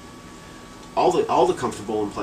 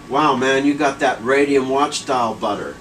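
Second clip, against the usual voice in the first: first blurt; 3 semitones higher, 5 dB louder than usual. Retold or imitated. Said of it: "I was like".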